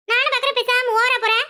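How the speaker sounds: heated yelling mid-quarrel; angry shout. Acted. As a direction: blow up at her sister.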